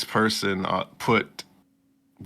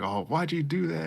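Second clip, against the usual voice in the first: put-on surprised girl; 9 semitones higher, 4 dB quieter than usual. Heroine's question voiced.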